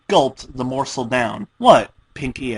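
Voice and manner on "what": high, loud innocent what; caught off guard. Acted. Pinkie caught chewing under Dash's stare, high and loud. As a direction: play innocent.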